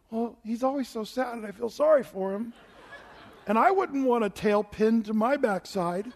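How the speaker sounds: a hint of a sweet small child; little daughter explaining her favorite, lightly voiced; child's answer.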